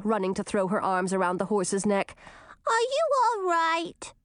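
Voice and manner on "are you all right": high, slow little doll voice; too calm creepy doll. Acted. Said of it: "she asked".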